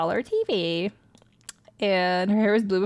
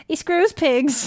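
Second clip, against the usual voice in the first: put-on high, loud girl voice; little girl; 8 semitones higher, 5 dB louder, slower than usual. Little girl answering the priest with the punchline, high and girlish.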